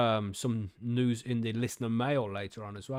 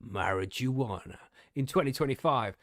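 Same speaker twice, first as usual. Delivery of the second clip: news article reading. Real, not acted. Podcaster reading cannabis research news to co-hosts, article-reading voice. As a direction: read the research report out to listeners.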